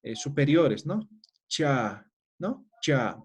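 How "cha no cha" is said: "Cha" repeated, tongue right behind the teeth; palatal cha. Shown as a demonstration. Teacher repeating the palatal example for the class. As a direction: clip "Cha" short and clear. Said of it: "la lengua ponemos justo detrás".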